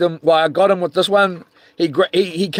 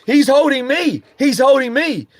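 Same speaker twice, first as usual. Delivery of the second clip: protesting; 7 semitones higher than usual. Retold or imitated. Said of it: "I was like".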